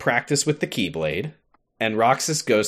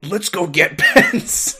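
giggling through a retold line; laughing quote; 9 semitones higher, 5 dB louder, slower than usual. Hayner to Olette, quoted through laughter. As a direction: laugh while quoting Hayner. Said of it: "is like".

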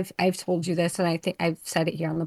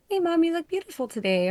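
imitating her daughter; 10 semitones higher, faster than usual. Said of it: "Chloe will see me and she'll be like".

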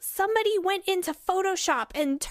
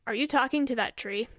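deep smooth voice; 4 semitones lower, faster than usual. Acted. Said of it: "a deeper man's voice".

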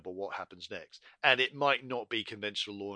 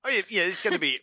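ordinary talk

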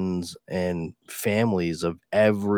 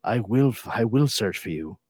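movie threat impression. Quoting the famous phone threat, mock menacing. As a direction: deliver it like a deadpan action hero. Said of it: "Brad Pitt?".

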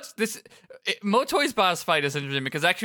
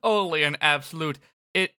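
much higher, slow mocking shout; Motoi villain voice; 6 semitones higher, slower than usual. Motoi gloats that Rindo fell for it, high mocking shout. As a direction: jeer at them like a smug villain. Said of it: "And Motoi says".

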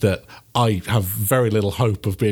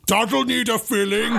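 much higher, deadpan brute quip; barbarian; 10 semitones higher than usual. Acted. Barbarian after punching through drywall, high brute quip. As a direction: deliver the pun like a dim brute. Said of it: "I pull my hand out and I'm like".

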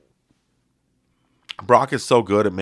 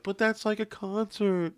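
retorting self; 11 semitones higher, 8 dB quieter than usual. Retold or imitated. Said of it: "it's like".

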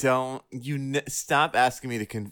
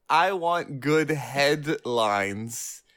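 laughing quote; 4 semitones higher, much slower than usual. Retold or imitated. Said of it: "laughs while quoting".

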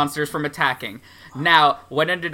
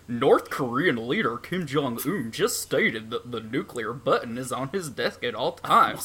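Donald Trump. Acted. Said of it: "funny, dangerous Donald Trump voice".

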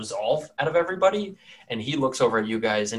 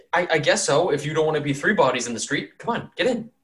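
scared townsman; 5 semitones higher than usual. Acted. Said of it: "very scared for your well-being".

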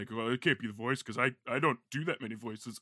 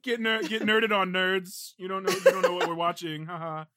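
high, loud playful taunt; hammed-up gloating, pitched up; mock gloating; 6 semitones higher, 7 dB louder than usual. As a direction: jeer at them in jest. Mock gloating, then apologizes.

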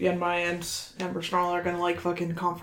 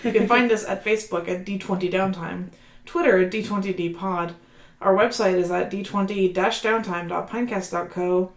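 outro announcer read; 3 dB louder than usual. Acted. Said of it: "slip into my original O C character, Molly".

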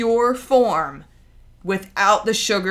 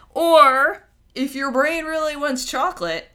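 whispered and pitched higher, like a secret; 8 semitones higher, 4 dB louder than usual. Acted. Host confides the chocolate loophole to listeners, whispered. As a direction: let them in on it in a whisper. Conspiratorial aside about chocolate cravings.

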